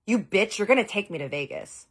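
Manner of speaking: mock yell. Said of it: "yelled this at me".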